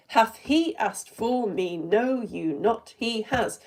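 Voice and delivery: slow, measured verse across two speakers; slow demonstration of shared meter; iambic pentameter reading. Shown as a demonstration. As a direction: lean on each beat of the line. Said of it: "Beautiful iambic pentameter".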